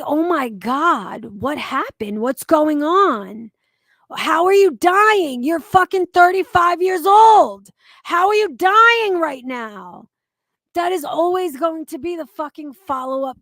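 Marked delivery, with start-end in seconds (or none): 0.0-10.1 mock-alarmed, much louder and higher disbelief; half-acted shock, rising to a near-yell; shocked question. Imagining a friend's terminal news, acting louder shocked disbelief. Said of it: "my next question would be".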